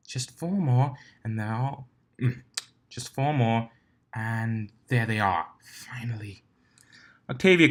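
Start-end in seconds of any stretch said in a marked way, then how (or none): 0.1-6.4 impatient counting, sighing relief at the end; impatient mayor. Acted.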